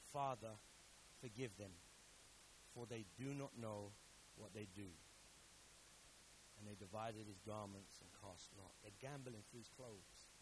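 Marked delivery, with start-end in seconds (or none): 0.1-4.9 hushed solemn quote. Retold or imitated. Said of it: "he says these words".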